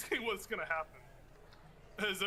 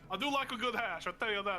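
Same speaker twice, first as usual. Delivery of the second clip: put-on wrestler's Canadian accent; 3 semitones higher than usual. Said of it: "That's a good accent".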